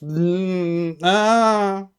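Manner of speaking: imitated coworker protest, sing-song; disapproving coworker. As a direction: mimic a coworker moaning no. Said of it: "don't use that voice".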